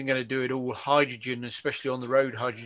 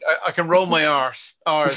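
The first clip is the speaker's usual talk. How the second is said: laughing; 3 semitones higher, 8 dB louder than usual. Real, not acted. Joking about own bad accent.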